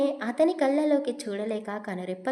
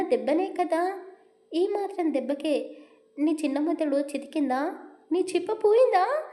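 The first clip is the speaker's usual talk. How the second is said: worried scolding; 5 semitones higher than usual. Acted. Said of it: "అని కంగారు పడుతూ".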